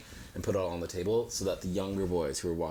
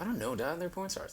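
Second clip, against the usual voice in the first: put-on higher, small embarrassed teenage voice; sheepish teen; 10 semitones higher, 4 dB quieter than usual. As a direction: squeak out the awkward confession. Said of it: "And I go".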